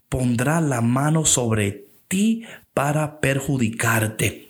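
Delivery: slow solemn quote. Acted. Quoting the Lord's words to Paul.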